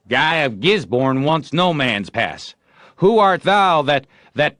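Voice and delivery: high, loud mock-heroic boast; proud knight. A narrator's reading. Joe as Guy of Gisborne answering Tom, loud and proud. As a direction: play the haughty knight.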